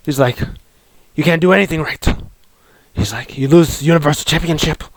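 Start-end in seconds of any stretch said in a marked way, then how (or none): 1.1-2.1 Vince McMahon. Retold or imitated. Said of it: "Vince McMahon puppet comes". 3.4-4.8 Vince McMahon. Retold or imitated. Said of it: "Vince McMahon puppet comes".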